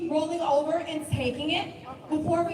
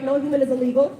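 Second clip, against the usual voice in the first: louder called-out slogan; rally shout; 3 semitones lower, 7 dB louder, faster than usual. Real, not acted. Speaker declaring a slogan to the protest crowd, shouted. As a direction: call it out to the crowd.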